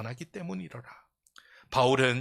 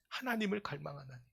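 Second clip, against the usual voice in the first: soft repeat; 3 semitones higher, 10 dB quieter than usual. Real, not acted. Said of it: "repeated, fading soft".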